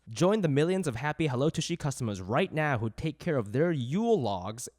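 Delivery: upbeat host reading sponsor copy; podcast ad read. Acted. Podcast host pitching a bidet to listeners, ad read. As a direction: sell it with playful, emphatic phrasing.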